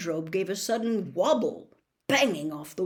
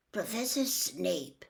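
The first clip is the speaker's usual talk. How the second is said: Professor Snape repeated slowly and a little softer, musing; thoughtful; 4 dB quieter, slower than usual. Acted. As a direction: weigh the name slowly, thinking it over. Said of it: "looked thoughtful".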